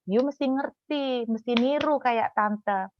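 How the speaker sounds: mimicked schooling tone, stretched out; aunt's preachy way. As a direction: draw it out like a lecturing auntie. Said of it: "bahasanya kayak gini".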